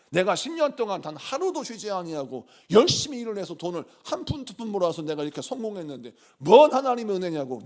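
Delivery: mildly acted self-made person's protest; indignant retort. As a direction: bristle and insist on your own credit. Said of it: "바로 화를 내요".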